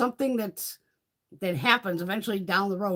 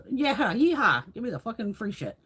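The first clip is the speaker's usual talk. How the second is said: put-on whooping old ladies. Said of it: "old ladies go fucking nuts".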